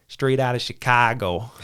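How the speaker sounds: put-on a quick, half-hearted Chicago accent; mock Chicago local, lightly done. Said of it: "I'm gonna butcher the accent".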